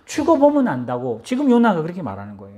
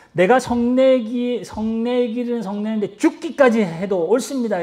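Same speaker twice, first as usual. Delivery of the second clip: slow, drawn-out mock defiance, higher at first; understated angry retort; defiant talking back; 5 semitones higher, slower than usual. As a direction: stretch it out, defying God. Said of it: "이렇게 하나님께 대들어요".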